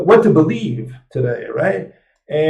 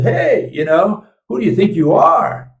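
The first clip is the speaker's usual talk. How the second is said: indignant mock challenge; 6 semitones higher than usual. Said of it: "He says".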